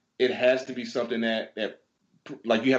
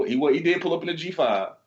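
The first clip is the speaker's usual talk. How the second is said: ordinary talk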